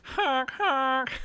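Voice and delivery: high-pitched honk honk; high goose honk. Pretend. Mock horn honks again.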